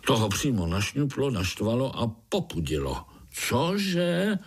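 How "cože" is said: roar. A narrator's reading. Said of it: "zařval".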